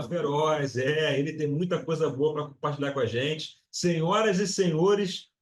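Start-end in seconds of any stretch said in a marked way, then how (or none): 3.7-5.3 slow, drawn-out showman's introduction; grand entrance announcement. Acted. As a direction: present the guest like a ring announcer. Host announces the guest.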